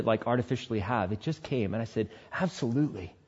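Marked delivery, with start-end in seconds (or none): 2.3-3.1 smiling. Retold or imitated. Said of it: "I said it with a smile".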